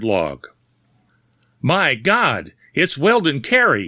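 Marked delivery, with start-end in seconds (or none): 1.6-3.9 high, loud cry of recognition; sudden startled shout over a corpse; shouting in shock. A narrator's reading. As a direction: blurt it out, horrified and loud. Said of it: "he shouted".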